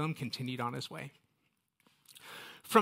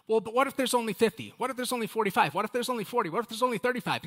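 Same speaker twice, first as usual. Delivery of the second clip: higher, pleading bargainer; pleading Abraham; 6 semitones higher, faster than usual. Retold or imitated. Abraham bargaining with the angels over Sodom, in a higher pleading voice. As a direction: haggle anxiously, number by number.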